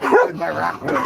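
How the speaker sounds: high, loud puppy voice; dog's voice. Retold or imitated. Owner voicing the dog looking for its rock. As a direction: voice the dog's confusion. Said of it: "She's like".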